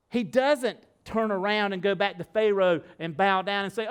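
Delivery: ordinary talk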